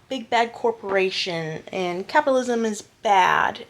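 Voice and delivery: mock-earnest, eye-rolling delivery; sarcastic. Real, not acted. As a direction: say it with a sarcastic edge. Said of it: "I'm saying that sarcastically".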